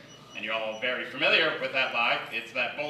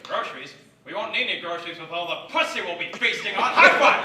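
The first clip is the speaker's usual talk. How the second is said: cocky dad; 4 semitones higher, 4 dB louder than usual. Retold or imitated. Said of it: "He's like".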